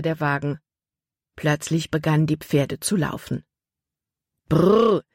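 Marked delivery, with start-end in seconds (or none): 4.5-5.0 moderately raised whoa to the horses; called command. A narrator's reading. Nate pulls back the reins, calling out. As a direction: call the team to a halt. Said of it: "rief Nate".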